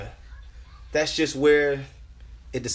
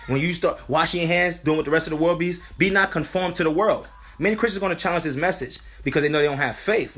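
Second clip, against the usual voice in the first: earnest preacher, pitched above chatting voice; urgent sermon delivery; urgent preaching; 3 semitones higher than usual. Real, not acted. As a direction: preach a warning to the congregation. Preaches to brothers and sisters.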